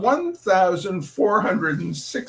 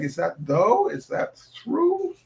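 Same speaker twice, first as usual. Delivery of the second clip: baffled; 3 semitones higher, slower than usual. Real, not acted. Puzzling over spelling.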